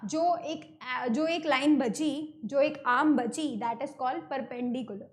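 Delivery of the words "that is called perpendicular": slow term. Shown as a demonstration. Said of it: "teacher names key term".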